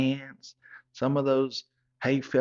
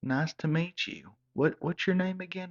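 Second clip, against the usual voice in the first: fake polite parents; 6 semitones higher than usual. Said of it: "They said".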